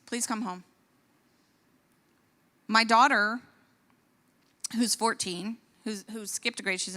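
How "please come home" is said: pleading. Retold or imitated. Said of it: "And I beg them".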